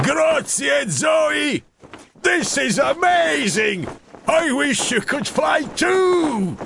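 high, loud thrilled calling; joyful shout. A narrator's reading. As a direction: call down with joy from the sky. Douglas shouting in flight.

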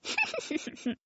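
high, breathy giggle; baby laugh. A narrator's reading. Baby laughs at her own joke, a high giggle. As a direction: giggle like a cheeky toddler. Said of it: "said Baby, laughing".

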